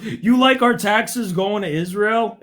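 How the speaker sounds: mocking quote. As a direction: imitate a silly question, drawn out. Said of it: "he goes".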